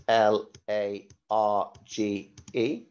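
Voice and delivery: slow, letter-by-letter spelling. Shown as a demonstration. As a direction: spell each letter clearly for the class.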